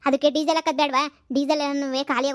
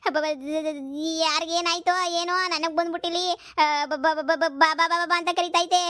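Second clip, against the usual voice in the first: stammering fear; slower than usual. Acted. Stuttering fear after ghost.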